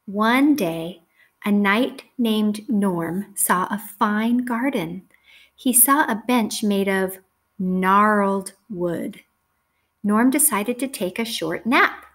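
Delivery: measured, clearly phrased storybook reading; story read to children. A narrator's reading. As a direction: read it out to a class of young children.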